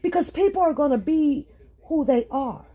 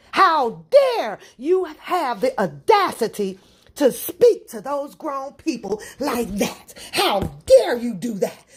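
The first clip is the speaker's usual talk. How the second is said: indignant scolding. Acted. Acts out scolding the offender.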